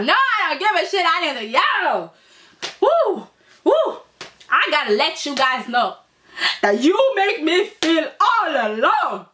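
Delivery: theatrical mock wounded cry; mock emotional. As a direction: play Eric worked up, stretching words out. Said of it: "Eric became really emotional".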